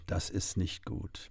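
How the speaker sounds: breathless whisper of dread; barely voiced, almost to yourself; hushed aside as the cabin floods; fearful whisper. A narrator's reading.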